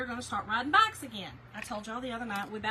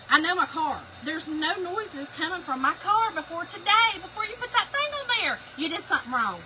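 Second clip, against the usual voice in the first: insistent argument; 4 semitones higher, 4 dB louder than usual. Retold or imitated. Retold argument with husband.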